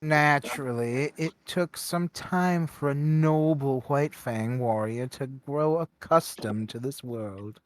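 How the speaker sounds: lightly put-on proper speech, as if to one-up him; trying to sound proper. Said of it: "tries to speak proper and sound proper".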